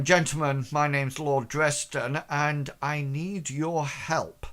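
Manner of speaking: a touch of upper-class authority; posh matter-of-fact lord. Acted. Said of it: "almost like a posh, matter-of-fact voice".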